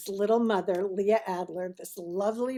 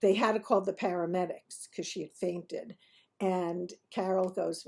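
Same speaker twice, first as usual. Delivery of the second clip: usual speaking voice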